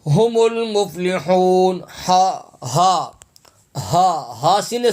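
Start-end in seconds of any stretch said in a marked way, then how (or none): 0.1-1.8 ہم المفلحون drawn out slowly with a breathy ہ from the chest; tajweed demo of ہم; slow Quranic recitation. Shown as a demonstration. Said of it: "ہا حلق سے ادا ہوگا".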